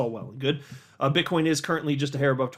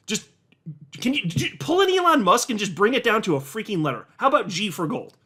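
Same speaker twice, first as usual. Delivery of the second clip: mock rant; 5 semitones higher than usual. Real, not acted. Vlogger ranting about a long gold bar name, exasperated. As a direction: vent at the silly product name. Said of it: "just wanted to rant".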